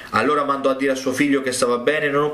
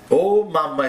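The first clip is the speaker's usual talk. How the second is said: esclamazione sorpresa; 4 semitones higher, slower than usual. Retold or imitated. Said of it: "esclamò".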